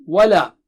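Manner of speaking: "Wala" with the long a held; "Wala", loud, with a drawn-out middle vowel; stretched wala. Shown as a demonstration. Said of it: "There is mad there".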